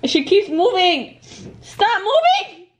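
frustrated panic. Real, not acted. Struggling with squirming hamster.

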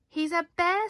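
high, loud triumphant accusation; triumphant reveal. A narrator's reading. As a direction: unmask Norman in triumph. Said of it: "said Amelia".

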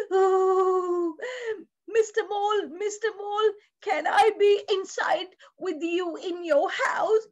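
lightly voiced freezing frog; pleading frog. Frog asks mole to share the house, mildly pleading. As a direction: beg lightly, as a shivering little frog. Frog begs to come inside.

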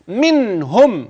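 منهم slow, the ن stopped and clearly pronounced; slow recitation demo. Shown as a demonstration. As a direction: recite منهم drawn out, ن sounded cleanly. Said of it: "هتسكن النون وتظهرها كويس". (منهم بإظهار النون ببطء)

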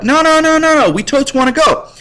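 high, eager begging; whiny high plea for a ride; mock pleading. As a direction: plead like an excited kid.

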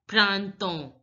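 printemps as "pran-ton", nasal vowels; French printemps, ending on an open "on"; French pronunciation. Shown as a demonstration. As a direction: say printemps with silent final p and s. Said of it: "I N is pronounced as a in French".

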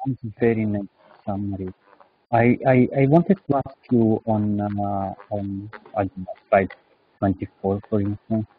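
muffled mic sound. Real, not acted. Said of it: "you're a little bit muffled".

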